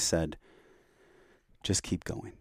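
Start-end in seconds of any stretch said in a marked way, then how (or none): 1.6-2.3 little inner voice. Retold or imitated. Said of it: "heard this little voice".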